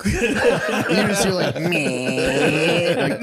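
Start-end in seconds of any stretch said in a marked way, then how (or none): 1.6-2.9 high, laughing dismissive meh; mock bored teen girl groan. Girlfriend's dismissive reply.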